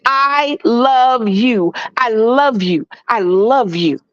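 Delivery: slow, sincere declaration; mean every word of it; repeated tender I love you; earnest I love you. Shown as a demonstration. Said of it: "them words that don't say".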